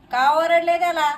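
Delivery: acted protective mother taking someone to task; mild mock outrage; indignant challenge. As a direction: demand an explanation, mildly indignant. Mother confronts father over scolding.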